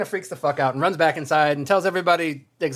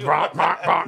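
imitated bonking. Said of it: "She was like".

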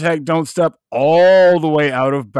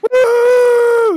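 loud excited whoop; frat bro whoop; 7 dB louder than usual. Real, not acted. Cheering after the chug.

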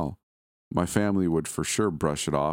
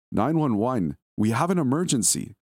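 shaky female caller, repeated; 7 semitones higher than usual. Acted. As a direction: raise the pitch and press harder as she repeats it. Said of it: "said a shaky female voice".

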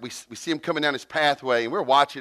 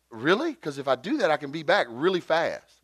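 raised, mildly amazed retelling; blown away; 4 semitones higher than usual. Retold or imitated. Father offered help with his son, retold amazement. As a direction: imitate a relieved father's surprise. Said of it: "he was blown away".

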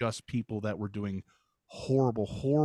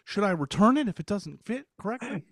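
high, lively stand-up whine much higher; Seinfeld bit; 10 semitones higher, 3 dB louder, faster than usual. Retold or imitated. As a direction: do a Seinfeld observational rant. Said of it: "Is that really one of his?".

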